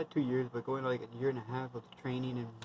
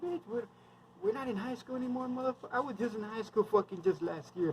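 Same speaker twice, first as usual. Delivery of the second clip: much higher, incredulous retelling of the rant; mock exasperated scolding; 9 semitones higher than usual. Soldier mocking a unit bully, high and incredulous. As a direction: pitch it up, as if you can't believe this guy.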